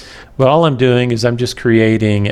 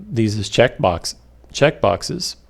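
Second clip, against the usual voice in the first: talking through hiccups; hiccuping between words; 4 dB quieter than usual. Real, not acted. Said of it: "got the hiccups again".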